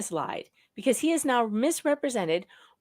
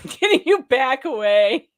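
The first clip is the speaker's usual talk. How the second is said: exasperated plea; 4 semitones higher, 9 dB louder, slower than usual. Retold or imitated. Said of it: "But I'm like".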